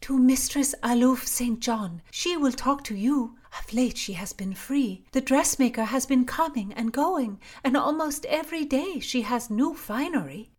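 high, loud gossip; a lady-in-waiting gossiping to Constance, high and loud. Acted. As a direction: spill the news eagerly. Lady explains the plan.

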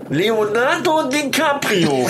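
talking with nose pinched; holding nose. Real, not acted. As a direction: speak with fingers on the nose. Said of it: "Finger von der Nase".

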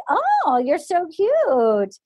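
slow, drawn-out imitation coo; hammed-up come-on; mock flirting. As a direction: draw it out flirtatiously. Mimics Natasha prowling up flirtatiously.

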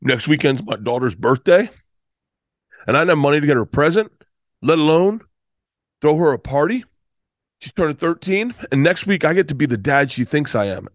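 halting, pitch lifting at phrase ends; understated mock crying, phrase by phrase; retold tearful speech. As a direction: imitate a man choking up, with pauses between phrases. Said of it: "and he starts crying".

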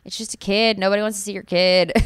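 mock-annoyed grumble at other parents; exasperated "ugh", playfully put on. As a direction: lightly imitate your old, irritated self. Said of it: "I used to think that was so annoying".

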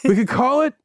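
slow grand pitch dropping on the big name; hammed-up dramatic unveiling; showman reveal. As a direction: unveil it like a carnival barker. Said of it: "He's like".

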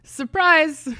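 loud, high gleeful shout; spring it on them; loud joking surprise. Real, not acted. Joking announcement.

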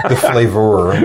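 put-on light French accent on the word; mock French accent. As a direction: say it like a playful Frenchman. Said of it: "I'm doing a French accent".

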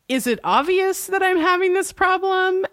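high mock of Pacey; a hammed-up, high defensive Pacey; imitating Pacey. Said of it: "Pacey's like".

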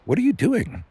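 high-pitched baffled question; incredulous. A narrator's reading. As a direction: ask it in startled disbelief. Wife confronts man digging through garbage.

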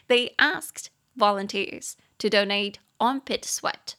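放慢语速朗读英文句子; 清楚一字一字念出来; slow model reading. Shown as a demonstration. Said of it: "teacher rereads sentence slowly". (老师慢速示范朗读)

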